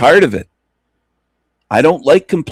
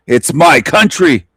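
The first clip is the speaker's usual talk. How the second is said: raised, slow emphatic declaration; louder and higher, each word driven home; passionate shout; 4 semitones higher, 4 dB louder, slower than usual. Acted. Coaching British people to shout down intruders, passionate and emphatic. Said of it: "got some passion and shouted".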